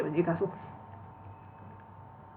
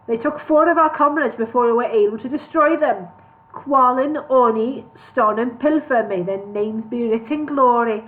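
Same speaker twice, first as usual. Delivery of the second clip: louder, lamenting dwarf voice; solemn dwarf; 3 semitones higher, 5 dB louder than usual. Acted. Dwarf mourning fallen comrades to elves, loud. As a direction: proclaim the fallen with grief.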